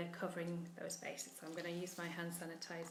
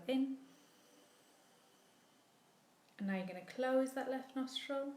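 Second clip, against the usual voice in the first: guided breathing cues; 3 semitones higher, 5 dB quieter than usual. Real, not acted. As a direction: guide each breath in and softly out. Leads alternate nostril breathing.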